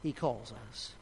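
soft and tender. Real, not acted. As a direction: let it sink gently to a hush. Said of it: "That old song says, "Softly and tenderly".

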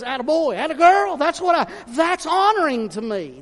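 high, loud, beaming praise; God's praise. Retold or imitated. God praising his faithful servants, high and loud. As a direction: cheer them on from above. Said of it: "God looks down and says".

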